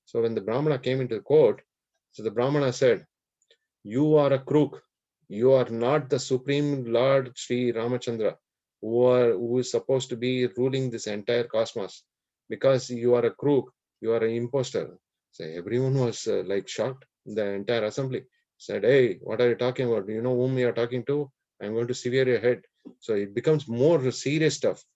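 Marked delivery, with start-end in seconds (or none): 3.8-15.0 louder, emphatic denunciation; mildly angry storytelling voice; acted accusation. Brahmana accuses Rama before the court. 18.8-22.6 quick, mildly outraged challenge; fast, acted indignation; indignant threat. Shocked assembly threatens the Brahmana.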